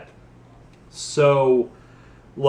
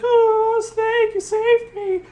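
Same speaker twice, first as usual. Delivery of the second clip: Meryl; slower than usual. Retold or imitated. Imitating rescued Meryl.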